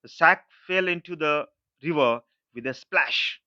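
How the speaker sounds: teacher reads the example slowly; slow read-aloud. Shown as a demonstration. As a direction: read the sentence slowly and clearly. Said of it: "next देखिए".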